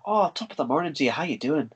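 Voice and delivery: joking stage-Irish greeting; mock Irish accent from a retold joke. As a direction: put on a light Irish lilt. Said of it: "All Irish".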